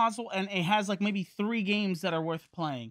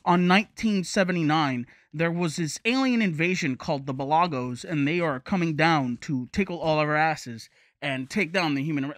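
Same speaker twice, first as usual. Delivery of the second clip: trailer narrator; 5 semitones lower than usual. Retold or imitated. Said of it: "Don't be like".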